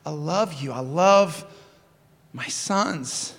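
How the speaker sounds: father's tender, understated plea; gentle pleading. Acted. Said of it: "He pleads with him".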